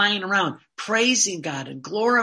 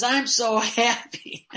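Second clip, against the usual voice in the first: laughing joy; 3 semitones higher, slower than usual. Retold or imitated. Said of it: "He says".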